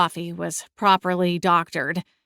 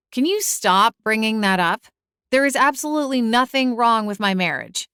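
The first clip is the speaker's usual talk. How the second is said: raised, insistent pitch; defensive; 5 semitones higher than usual. Acted. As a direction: protest a bit too much. Cora defensive about marriage.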